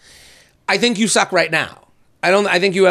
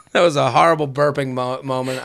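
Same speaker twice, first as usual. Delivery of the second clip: talking between sips; words round a sip of drink; sipping while talking; 6 semitones lower than usual. Real, not acted. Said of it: "I'm sipping and talking at the same time".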